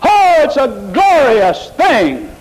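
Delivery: mocking slow, high ecstatic delight; mock rapture. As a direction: slowly overdo a swooning worshipper. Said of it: "scream and shout".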